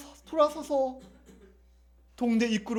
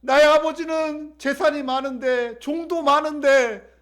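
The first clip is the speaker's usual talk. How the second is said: slow, drawn-out yearning; fervent longing; 3 semitones higher, slower than usual. Acted. Prodigal son recalls his father's plenty, slow and yearning. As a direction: stretch each phrase with longing.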